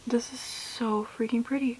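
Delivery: breathless whispered gush; hushed amazement; awed whisper. Real, not acted. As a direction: whisper it in awe of the color. Awed by eyeshadow.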